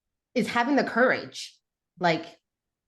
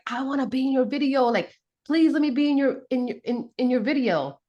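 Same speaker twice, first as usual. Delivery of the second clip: put-on higher-pitched childlike begging; pleading; 5 semitones higher than usual. Younger sibling begging the brothers to be in their video, pleading. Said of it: "where I begged my brother".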